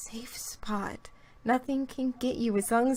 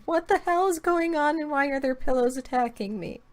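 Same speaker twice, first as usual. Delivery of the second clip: lightly voiced kitten, a bit higher and louder; cute kitten voice; 4 semitones higher, 4 dB louder than usual. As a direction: play a confused little kitten under attack. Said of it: "like a cute kitten going".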